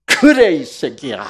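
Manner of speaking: loud jokey snap with a laugh; mock angry outburst. Preacher imagines scolding Judas, loud laughing mock anger. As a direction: blow up at him in fun. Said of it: "제가 예수님 같았으면".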